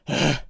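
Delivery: short winded gasp of breath; out-of-breath huff. Shown as a demonstration. Streamer showing viewers their winded breathing, out-of-breath huff. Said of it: "hear me going like".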